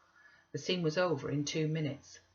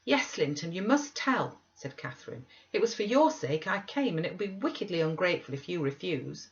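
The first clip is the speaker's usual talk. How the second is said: put-on higher, earnest young girl's plea; pleading Catherine; 3 semitones higher than usual. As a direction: beg her cousin to tell, voice lifted.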